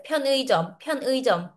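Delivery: 편의점 broken after pyeon, with full ui; choppy unlinked pronunciation. Shown as a demonstration. Teacher shows the word sounding cut, choppy unlinked pronunciation. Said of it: "Parang putol yung word niya".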